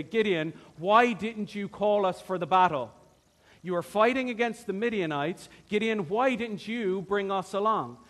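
annoyed. Retold or imitated. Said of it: "why are they so annoyed".

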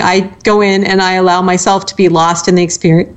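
hiccuping between words; with hiccups. Real, not acted. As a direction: speak with the hiccups. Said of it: "Excuse me, I have the hiccups".

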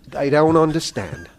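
put-on Aussie accent; Australian accent. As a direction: read it like an amateur Australian impression. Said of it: "how to do my Australian accent".

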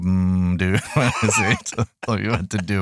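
low put-on villain voice, repeated; low menacing voice.

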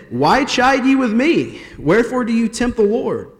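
a touch of an exasperated leader; exasperated Moses. Acted. Moses answering the scolding people.

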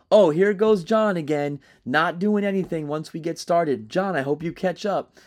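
a touch of a sarcastic teacher; sarcastic dig. Retold or imitated. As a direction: needle the kid sarcastically. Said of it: "There's that sarcasm".

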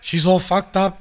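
high, frantic overreaction; mock panic. Dad panicking over his fallen baby, high and frantic. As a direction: panic like a scared new dad. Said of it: "I'm like".

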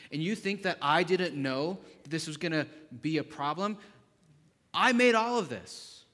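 loud, high, indignant God booming at Moses; a furious Lord scolding his servant, rising to a roar; angry God. Acted. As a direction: thunder back at him, offended and exasperated. God voiced angrily in sermon.

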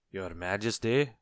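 formal goblin herald, projected; announcing. A narrator's reading. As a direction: announce it to a king. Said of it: "announced the goblin".

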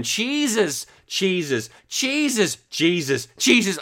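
put-on high, repeated child's chant; imitated own child. Little one copying the other girl, imitated high shouts. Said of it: "my little one's going".

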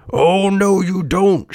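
high, loud cry of protest; acted high-pitched yell; indignant shout. A narrator's reading. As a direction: shout after a runaway. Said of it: "shouted Geppetto".

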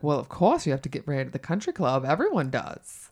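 a light, quick put-on upper-crust accent, barely shifted from her own voice; a faint hint of a snooty country-club accent; posh crazy accent. Mimicking in-laws who insist on the country club, in a mild posh accent. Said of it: "I don't know why they have this crazy accent".

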